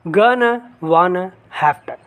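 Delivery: "Gonna", "wanna", "have to" as separate short forms, the last as "hafta"; each merged into two syllables: "Gonna", "wanna", "have to" as hafta; reduced forms. Shown as a demonstration. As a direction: list "Gonna, wanna, have to" with weak "uh" endings. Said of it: "they will say only".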